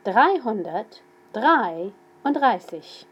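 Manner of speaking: slow dictation of Dreihundertdreiunddreißig; Dreihundertdreiunddreißig drawn out part by part; slow and clear. Shown as a demonstration. Teacher dictating a number slowly to students. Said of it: "I'll say them slowly".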